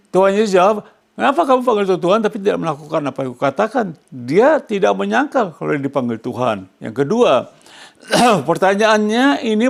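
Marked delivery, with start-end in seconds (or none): 1.2-3.9 high reproachful question, rushing at the end; preacher voicing Jesus' reproachful question; voicing Jesus. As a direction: ask it with reproach.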